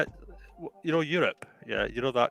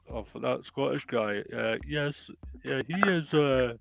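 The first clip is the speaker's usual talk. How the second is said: put-on putting on a regional British accent; drawn-out regional accent, as a local gossiping. Gossiping local spreading word of a bastard son, regional accent. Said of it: "Good accent".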